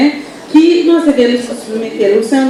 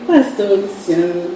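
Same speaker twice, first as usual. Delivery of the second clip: amused pastora. Retold or imitated. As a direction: tease him gently, drawing out his name. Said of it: "e fala assim".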